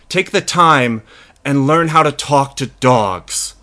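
measured sign-off sermon, played straight; closing public-service message, deliberately paced; mock-earnest moral speech. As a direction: plead with listeners in mock-solemn sincerity.

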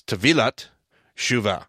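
Tevilat Shuva with the stress on VI in Tevilat; careful demo of Tevilat Shuva, stressing the V syllable; correct Hebrew pronunciation. Shown as a demonstration. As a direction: say Tevilat as te-VEE-lat, ending on a T, then Shuva. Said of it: "the correct pronunciation of this".

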